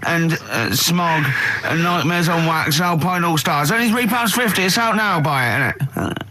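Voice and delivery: a husky, throaty magazine advert; mock hoarse ad read. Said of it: "Have you got a sore throat there?".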